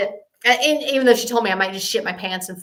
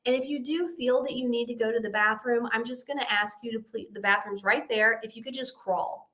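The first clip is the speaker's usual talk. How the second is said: gentle shaman; 5 dB quieter than usual. Retold or imitated. Shaman gives gentle instructions, retold.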